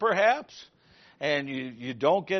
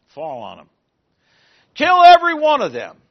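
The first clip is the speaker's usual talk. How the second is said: harsh order; 9 dB louder than usual. Acted. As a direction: order the killing.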